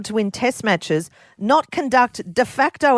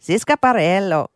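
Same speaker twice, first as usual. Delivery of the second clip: put-on name said with a Spanish accent; 3 semitones lower than usual. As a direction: roll it like a Spanish speaker. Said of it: "did I just do a Spanish accent".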